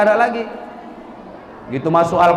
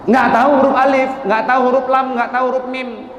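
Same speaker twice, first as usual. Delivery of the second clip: exasperated; 6 semitones higher than usual. Real, not acted. Exasperated at pupil's ignorance.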